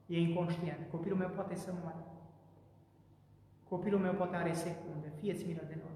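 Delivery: soft, desperate begging to a healer; a father begging Christ quietly for his son; father's hushed plea. Acted. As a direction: plead low for a dying child's life. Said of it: "tatăl își privește copilul și îi spune".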